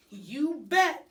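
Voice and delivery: loud, high hamster squeak; eager hamster. A narrator's reading. Hamster squeaking a loud answer to Aldo. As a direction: pop it out as a bright squeak. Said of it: "I tried to tell him".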